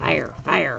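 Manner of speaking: really bad, botched cartoon-character voice. Urging the kids to find some fire, doing a bad Beavis and Butthead impression. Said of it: "really bad impersonation of Beavis and Butthead".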